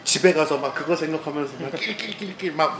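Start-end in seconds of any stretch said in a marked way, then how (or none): 1.7-2.5 soft mock snickering, rattled off; imitated gleeful giggle. Retelling laughing alone at home over his prank, imitated giggle. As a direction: act out a private, wicked snicker. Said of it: "막 발 동동 구르면서 웃고".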